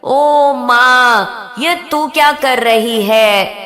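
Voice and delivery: put-on the demon yelling at his old nurse; loud scream. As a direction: scream at mother as the hair is torn. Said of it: "राक्षस फिर जोर से चीखा".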